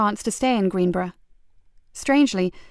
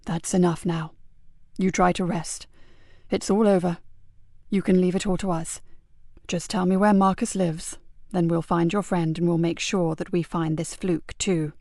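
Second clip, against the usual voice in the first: calming; 2 semitones lower than usual. Acted. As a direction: settle the boy gently. Calming a shaking boy.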